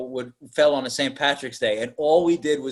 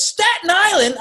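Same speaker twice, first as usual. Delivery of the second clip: mock surprise; 4 dB louder than usual. Prostitute surprised at distance.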